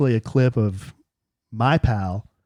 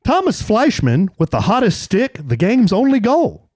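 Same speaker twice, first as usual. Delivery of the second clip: announcer voice; 3 semitones higher than usual. Shown as a demonstration. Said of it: "try to do announcer voice".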